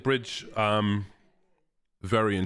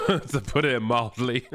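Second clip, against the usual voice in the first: laughing through the words; amused laugh while talking; 6 semitones higher, slower than usual. Real, not acted. Laughing at aggressive map.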